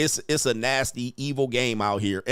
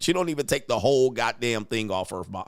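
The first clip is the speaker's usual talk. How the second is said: normal talking voice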